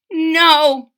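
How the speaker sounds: high loud sharp no; shouted. A narrator's reading. Bartholomew stopping the trumpeter, loud shout. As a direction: cut him off with a shout. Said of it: "shouted Bartholomew".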